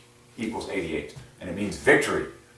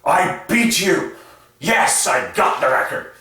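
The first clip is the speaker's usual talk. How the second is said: mock gloating; 7 semitones higher, 4 dB louder, slower than usual. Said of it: "She's not saying".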